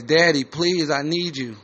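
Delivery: a hint of a pleading child; little girl's voice. Little girl begging Daddy for help, lightly voiced plea. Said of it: "Little girl's voice".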